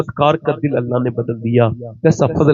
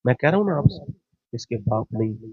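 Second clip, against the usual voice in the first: lower, much softer heartfelt preaching; soft tender preaching; 3 semitones lower, 6 dB quieter than usual. Acted. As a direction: speak it softly as if near tears. Soft emotional sermon. (نرم اور دھیمی جذباتی خطابت)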